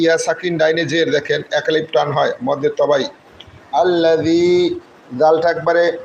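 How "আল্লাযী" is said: আল্লাযী drawn out with a soft th-as-in-this; soft dhal. Shown as a demonstration. Teacher models the soft letter, softening the dh in আল্লাযী. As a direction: say আল্লাযী slowly, gentle dh, long final ee. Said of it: "নরম করে উচ্চারণ করবো".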